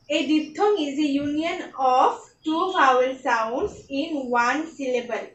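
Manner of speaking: reading a definition very slowly, word by word; slow dictation. Shown as a demonstration. Shorthand teacher dictating a definition to the class, very slow and deliberate. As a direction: spell it out slowly so students can copy it down.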